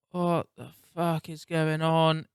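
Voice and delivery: slow, drawn-out disbelief; slow exasperation. Real, not acted. Gamer staring at a black screen, slow and exasperated. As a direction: drag it out, fed up and lost. Console won't turn back on.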